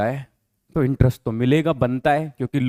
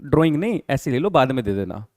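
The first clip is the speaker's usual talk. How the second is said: obliging business voice; 4 semitones lower, 4 dB quieter than usual. Retold or imitated. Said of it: "तो business कहता है".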